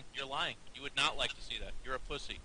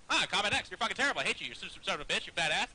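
mock rival player; faster than usual. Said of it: "And you'd be like".

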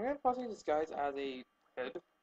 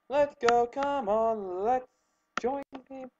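eager; 8 semitones higher, 8 dB louder, slower than usual. Real, not acted. Starting the game eagerly.

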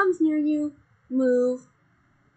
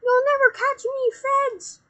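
mock villain shout; 11 semitones higher, 6 dB louder than usual. Gamers voicing a fleeing villain.

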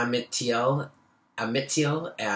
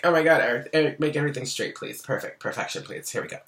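inner Virgo voice; 4 semitones higher, 3 dB louder, faster than usual. Retold or imitated. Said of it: "The inner Virgo in me is like".

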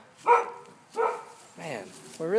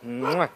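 kiss sound; 5 semitones lower, 3 dB quieter than usual. Shown as a demonstration. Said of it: "can you blow a kiss".

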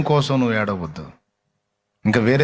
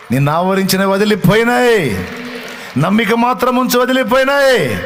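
much higher, louder preaching shout; shouted declaration; 10 semitones higher, 5 dB louder than usual. Real, not acted. Preacher shouts deliverance over the congregation, climactic shout. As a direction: cry it out over the crowd.

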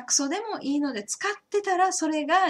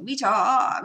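said fast; 5 dB louder than usual. Shown as a demonstration. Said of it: "これを早く言うと".

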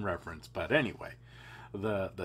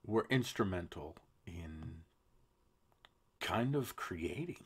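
sly whisper; 4 semitones lower, 6 dB quieter than usual. Real, not acted. Host whispers his jab at Turkey, conspiratorial whisper. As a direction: drop to a knowing whisper. Sarcastic aside about Turkey.

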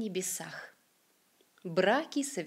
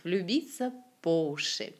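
по уши accented on the preposition по; по уши as one unit, stressed on по. Shown as a demonstration. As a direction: stress по rather than уши. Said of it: "la préposition по".

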